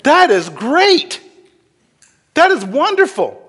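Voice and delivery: stunned happy laughter, slowing down in wonder; laughing in delight. Retold or imitated. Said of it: "he's kinda laughing like".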